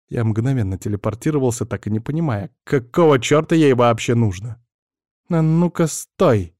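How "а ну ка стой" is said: irritated. Acted. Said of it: "показывала своё раздражение".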